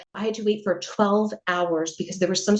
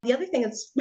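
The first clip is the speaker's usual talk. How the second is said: normal talking voice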